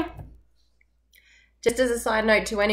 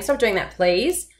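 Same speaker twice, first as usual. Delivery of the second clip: firmer request, "please" still rising slightly; firm it up but keep the please; slower than usual. Shown as a demonstration. Teacher demoing a firmer request to kids. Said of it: "make it more firm by saying".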